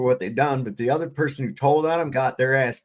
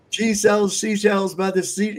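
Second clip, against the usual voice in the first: slow, high trigger phrase; imitating a stage hypnotist intoning; slow hypnotist command; 7 semitones higher than usual. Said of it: "he says".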